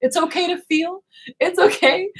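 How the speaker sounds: high-pitched, coaxing comfort; imitated reassurance. Imitates herself reassuring a friend.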